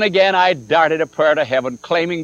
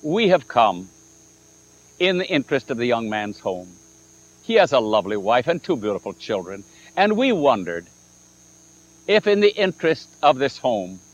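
sweet and kind; 4 semitones lower than usual. Retold or imitated. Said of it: "I put all the sweetness in my voice".

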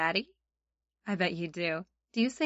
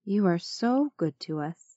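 sunday school teacher. Shown as a demonstration. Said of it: "pray together".

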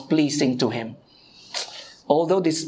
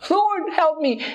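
high, urgent plea of a desperate mother; desperate pleading; 11 semitones higher, slower than usual. Retold or imitated. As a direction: cry out to the Lord, much higher and more urgent. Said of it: "did not stop her".

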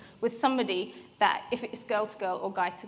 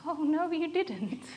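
sassy disbelief; 5 semitones higher, slower than usual. Retold or imitated. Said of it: "I was so angry".

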